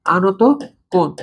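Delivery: আনত then কোণ, split with a pause; word by word. Shown as a demonstration. Teacher drills the term for students, slow and separated. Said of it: "আমরা বলে থাকি আনত কোণ".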